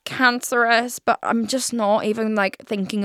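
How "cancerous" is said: louder, higher pretend panic; mock stressing out. Host showing how she could panic about her diagnosis, mock stress. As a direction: briefly play at freaking out. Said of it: "stress out about it".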